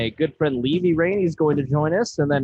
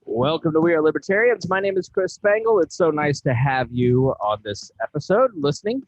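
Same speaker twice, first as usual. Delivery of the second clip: lifted, higher-pitched show-opening delivery; polished host greeting; podcast host intro; 4 semitones higher, 3 dB louder than usual. Acted. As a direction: welcome the listeners to the show.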